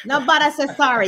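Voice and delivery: light Jamaican Patois lilt; Jamaican accent. Acted. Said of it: "I took away the Brooklyn accent into the Jamaican accent".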